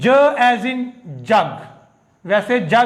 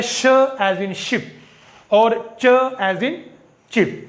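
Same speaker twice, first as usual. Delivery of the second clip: slow drill; much slower than usual. Shown as a demonstration. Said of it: "स, ज simple है".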